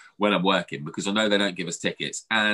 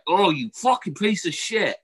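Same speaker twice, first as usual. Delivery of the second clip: higher, slowed curse; mock furious insult; 8 semitones higher, slower than usual. Cursing the warden while loading the kids. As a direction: spit it out slowly.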